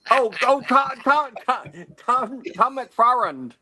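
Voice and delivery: high, bad Canadian accent; a hammy Canadian accent. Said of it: "your Canadian accent is awful".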